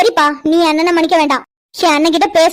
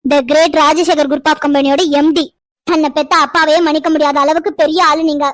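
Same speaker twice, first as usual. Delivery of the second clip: mock respectful sarcasm; 4 semitones lower than usual. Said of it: "வாங்க போங்க எல்லாம் பேசிட்டு".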